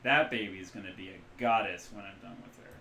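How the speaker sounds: fond. Acted. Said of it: "looks fondly".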